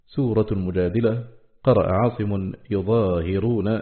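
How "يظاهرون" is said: "يظاهرون" slowly as yuẓāhirūn, damma on the ya, light ẓa with alif, kasra on the ha; careful recitation reading. Shown as a demonstration. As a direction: spell out "يظاهرون" as yu-ẓā-hi-rūn, slowly. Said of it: "بضم الياء وتخفيف الظاء وألف بعدها وكسر الهاء".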